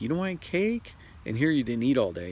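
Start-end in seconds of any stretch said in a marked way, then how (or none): 0.0-0.9 high, rising mock surprise; surprised coworker. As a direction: act amazed someone skips cake. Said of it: "everybody's having the cake".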